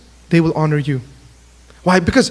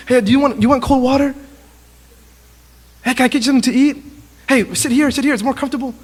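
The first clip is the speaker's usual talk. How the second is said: higher-pitched eager offers; excited fan; 3 semitones higher, faster than usual. Retold or imitated. Fan looking after his idol's comfort, excited. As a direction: play a fan fussing over his idol. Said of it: "he's just so excited".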